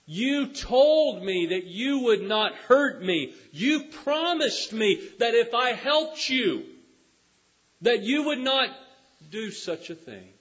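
high, loud, pleading protest; crying out in protest. Acted. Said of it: "the brave cried".

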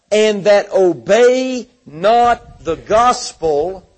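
slow, measured preaching cadence; scripture reading. Acted. Preacher reading a warning of vengeance to the congregation, slow solemn reading. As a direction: draw out each phrase of the scripture. Reads scripture aloud in sermon.

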